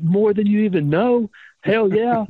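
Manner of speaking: high, eager yes; retold eagerness. Eager reply retold to Vince.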